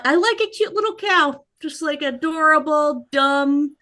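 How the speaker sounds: high-pitched fawning over something adorable; cutesy gushing. Real, not acted. Gushing over a cute cow.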